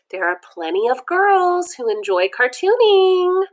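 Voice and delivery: high, loud, bright encouragement; cheerful. Acted. Teacher telling the boys girls like cartooning, cheerfully loud. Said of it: "she says cheerfully".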